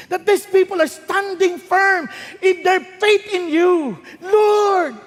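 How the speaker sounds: earnest, near-tearful plea to God; pleading prayer. Acted. Epaphras pleads tearfully with God for the Colossians. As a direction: beg God with a catch in the voice.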